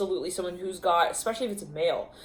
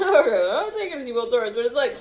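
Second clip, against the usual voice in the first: out of breath; 8 semitones higher, 3 dB louder than usual. Real, not acted. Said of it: "Let me catch my breath".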